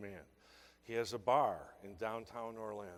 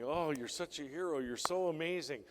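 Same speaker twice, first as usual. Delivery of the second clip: mock gushing, raised and insistent; higher, louder, overeager flattery; badgering TV hosts; 5 semitones higher, 5 dB louder than usual. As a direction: imitate hosts pestering with praise. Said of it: "And they keep badgering".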